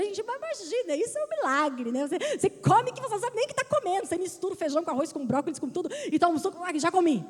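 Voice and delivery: mais alto e mais agudo, com empolgação; pregação animada. Acted. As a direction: pregue com fogo sobre a correria. Pregação enfática sobre comer correndo. (pregadora empolgada falando à igreja)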